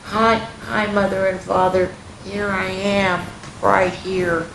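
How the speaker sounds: lightly voiced sleepy little girl; just woken, drowsy greeting. Girl waking behind cushions greets parents, sleepy. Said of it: "said in a sleepy voice".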